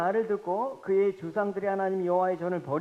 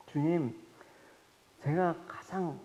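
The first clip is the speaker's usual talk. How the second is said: quiet prayer; 4 semitones lower, 4 dB quieter than usual. Retold or imitated. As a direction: pray it under your breath. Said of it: "제가 곰곰이 물어봤습니다".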